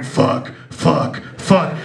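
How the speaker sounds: breathy low fuck, fuck, fuck; hushed mock groans. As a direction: mutter it like the film scene. Imitating film scene.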